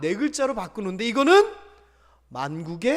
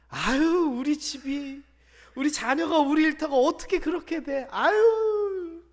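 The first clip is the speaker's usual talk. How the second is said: tearful, drawn-out sigh of doubt; whining despair; 4 semitones higher than usual. Retold or imitated. Doubting believer whimpering that nothing can change. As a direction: lament like you can't believe it.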